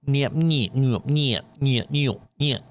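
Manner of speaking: a rapid string of playful mock Russian "Niet". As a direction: rattle off "Niet" like a teasing Russian. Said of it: "that one sound that I always hear".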